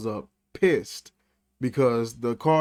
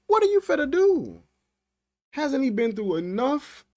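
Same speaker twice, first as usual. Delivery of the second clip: outraged; 11 semitones higher than usual. Real, not acted. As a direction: demand it in disbelief, voice up high. Outraged rhetorical question.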